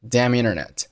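damn internet joined with no gap; damn internet as "da-minternet"; linked words. Shown as a demonstration. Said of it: "Damn和internet辅元连读".

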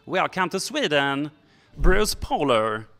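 a fan recognising a TV actor, excited. Retold or imitated. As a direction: gush like a fan spotting a TV star. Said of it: "you might go".

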